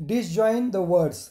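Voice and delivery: slow and deliberate, each word apart; slow dictation. Shown as a demonstration. Teacher giving the English instruction to students, slowly. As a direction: read it slowly for note-taking.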